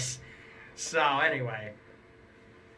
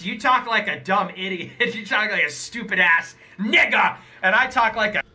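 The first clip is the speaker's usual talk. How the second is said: mocking smug voice; 4 semitones higher than usual. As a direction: needle them in a cocky put-on voice. Keeps mocking the rival's voice.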